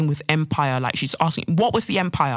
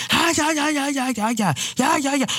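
mocking racist Brit voice; 8 semitones higher than usual. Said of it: "you're like".

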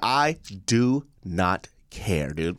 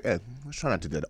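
polite request; 8 dB quieter, much faster than usual. Retold or imitated. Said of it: "call people out in a polite way".

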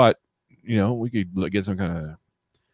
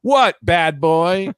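intrigued woman; 6 semitones higher, much slower than usual. Acted. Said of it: "And they go".

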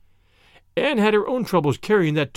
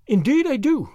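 sincere; 8 semitones higher than usual. A narrator's reading. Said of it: "said Anne sincerely".

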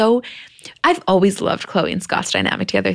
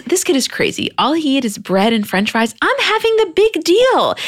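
mock grown-up boy; 9 semitones higher than usual. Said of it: "He goes".

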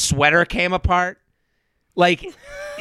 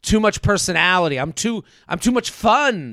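mocking her. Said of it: "it was a lot of that speak".

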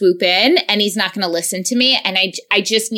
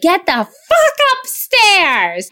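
higher, slow barked order; furious snap; 9 semitones higher, slower than usual. Retold or imitated. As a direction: snap at the kid to go upstairs. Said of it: "And I was like".

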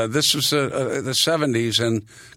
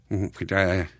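land shark voice; 3 semitones lower, 4 dB quieter than usual. Retold or imitated. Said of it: "Then I'd go".

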